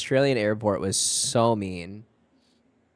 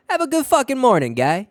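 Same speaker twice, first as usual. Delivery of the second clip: high, loud mock Australian greeting; hammed-up Australian accent, much higher and louder; Aussie impression; 13 semitones higher, 8 dB louder than usual. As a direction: belt it like a brash Australian bloke. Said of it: "this is how they talk".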